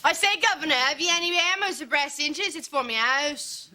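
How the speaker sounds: put-on 1 phony English accent. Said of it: "our phony English accents".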